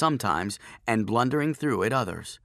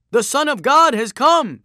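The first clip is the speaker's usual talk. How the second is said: very high, loud proclamation; crowd shout; 13 semitones higher, 11 dB louder than usual. A narrator's reading. Another onlooker hailing Joshua, shouting high. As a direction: cry it out over a roaring crowd.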